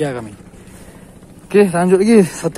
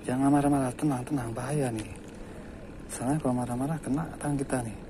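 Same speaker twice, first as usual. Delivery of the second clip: soft, lowered calming voice; soothing; 3 semitones lower, 9 dB quieter than usual. Real, not acted. Angler calming an angry fish on the hook, soothing. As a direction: gently talk the creature down.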